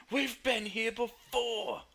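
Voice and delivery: high, loud, drawn-out cry; screaming out loud. Acted. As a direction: scream it out slowly for all to hear. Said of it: "screams out loud".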